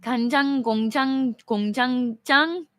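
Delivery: 간장 공장 공장장 rattled off fast; trying Korean tongue twister. Shown as a demonstration. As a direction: rush through 간장 공장 공장장 in one breath. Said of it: "I don't even know if I'm pronouncing that right".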